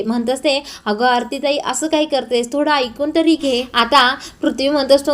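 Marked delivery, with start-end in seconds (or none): 0.8-3.6 soothing. Acted. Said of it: "आनंदी आरतीला शांत करत असते".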